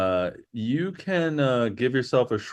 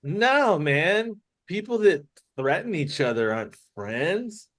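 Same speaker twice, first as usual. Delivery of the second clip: hurt protest; 6 semitones higher than usual. Acted. Hurt character rejects the friendship.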